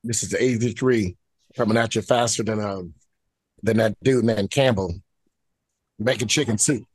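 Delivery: lost voice, hoarse and rough; talking with a hoarse, sick voice. Real, not acted. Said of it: "I kinda lost my voice".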